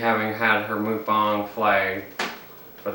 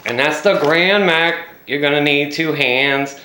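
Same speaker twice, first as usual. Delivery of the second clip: slow, louder proud unveiling; showman reveal; 4 semitones higher, 4 dB louder than usual. Real, not acted. Vlogger presenting the burger, proud slow reveal. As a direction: present it like a prize.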